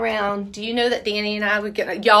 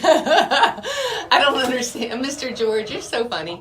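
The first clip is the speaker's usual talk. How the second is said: laughing; 3 semitones higher than usual. Real, not acted. Laughing at crazy people.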